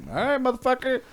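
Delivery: high, soft mock threat; imitated defiant retort. Voicing a mocked candidate's reply to the president, quietly defiant. Trump's imagined retort to banquet joke.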